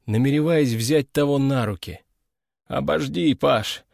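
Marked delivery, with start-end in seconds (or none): 2.7-3.8 put-on weak, gasping old man; breathless, faint old voice. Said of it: "прошептал старик, жадно хватая ртом воздух".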